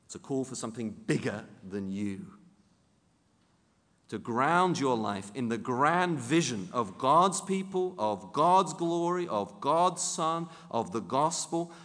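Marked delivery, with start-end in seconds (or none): 4.1-11.7 rising higher and louder to a near shout; fervent preacher swelling to a cry; building sermon climax. Real, not acted. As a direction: pile up each phrase with rising urgency.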